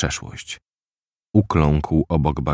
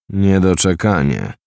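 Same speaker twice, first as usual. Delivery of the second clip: choked growl; 2 semitones higher than usual. Acted. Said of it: "warknął zdławionym głosem".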